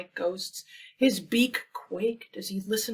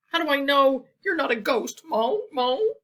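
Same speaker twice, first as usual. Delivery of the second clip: suspicious question; 6 semitones higher, 8 dB louder than usual. Acted. Goose suspicious of the ghost.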